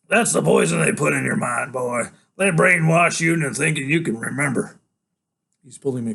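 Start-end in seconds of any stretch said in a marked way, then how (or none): 0.1-4.8 loud, firm contradiction; insistent denial. Acted. Father dismissing son's memory, loud insistent denial. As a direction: overrule him loudly.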